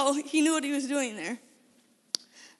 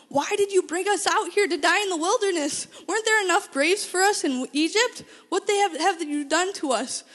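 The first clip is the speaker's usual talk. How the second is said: raised, higher pleading shout; crying out to God; 5 semitones higher, 4 dB louder than usual. Retold or imitated. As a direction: cry out in despair at God. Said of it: "shout out to God".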